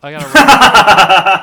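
mock panic. Retold dread of the basement.

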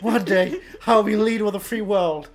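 high, loud, laughing put-on voice; silly high voice. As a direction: squeal it out like a cartoon. Voicing Paul Giamatti, high and laughing.

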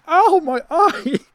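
slow, high mock wail of pain; imitating the girl. Poked girl doubled over on the dance floor, mock wail. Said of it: "She's like".

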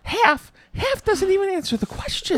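high, loud incredulous question; baffled what, half; exasperated disbelief. Real, not acted.

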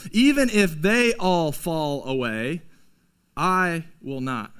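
a light echo of Peter's boast; boastful Peter. Retold or imitated. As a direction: swear it with pride. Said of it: "we have the same heart as Peter".

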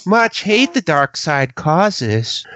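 slow, lightly effeminate Yoda voice. Retold or imitated. Continuing the Yoda imitation.

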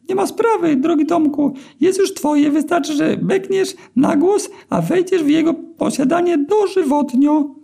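very high, thin and squeaky, slowed down; squeaky eel begging for mercy. A narrator's reading. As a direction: plead in a tiny squeaky eel voice. Eel granting wish.

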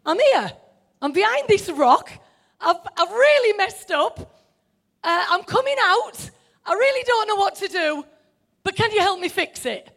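a hint of contrite openness. Shown as a demonstration. Adam answering a loving God, with a hint of contrition. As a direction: confess gently, asking for help. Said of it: "If you hear that in a loving light".

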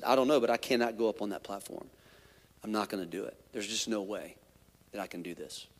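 a defeated retold murmur; hushed refusal. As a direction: refuse quietly and then trail off. Refusing to go on stage.

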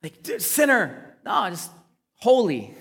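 hammed-up high, accusing gasp at a sinner; mock scandalised accusation; mock judgy finger-pointing. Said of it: "We're like".

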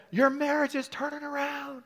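high, loud proclaiming; ringing prophetic cry; prophetic shout. Real, not acted. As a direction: declare it with full force. Preacher prophesying over woman.

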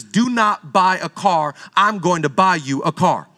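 slow, low solemn voice of God. Acted. Preacher voicing God telling him not to buy a car, slow and deep. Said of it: "God says".

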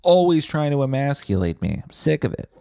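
loud burst of mock outrage, then aggrieved; hammed-up indignant comeback; mock angry retort. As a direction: fire back like a fed-up lover. Acted angry retort to egg sandwich.

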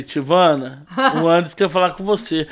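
low, unbothered phone answer; retold sluggish brother. Brother answering the screaming caller, low and unhurried. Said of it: "a lerdeza do meu irmão".

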